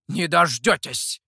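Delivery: loud, slow huffy retort; offended retort. A narrator's reading. Mikhou huffily retorts to the two friends. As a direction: fling it back, offended.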